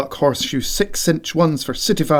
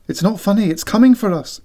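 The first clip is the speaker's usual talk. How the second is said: a touch higher frightened squeak; 5 semitones higher, faster than usual. Acted. Siobhan scared in bed, squeaking at McX. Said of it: "squeaks Siobhan".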